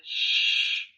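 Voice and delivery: gentle whispered shush. Acted. Comforting a crying listener.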